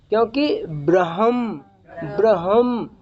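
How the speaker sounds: "ब्रह्म" as bra-ham, slow, ह heard first; ह before म. Shown as a demonstration. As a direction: sound the ह clearly, then close on म in "ब्रह्म". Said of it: "हा पहले माँ सुनाई देना चाहिए". ("ब्रह्म" में पहले ह, बाद में म सुनाएँ)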